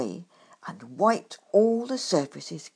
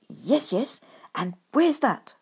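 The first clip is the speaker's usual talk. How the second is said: loud, eager push for an answer; eagerly; 4 semitones higher, 5 dB louder than usual. Acted. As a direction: press him eagerly, a bit louder. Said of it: "I went on eagerly".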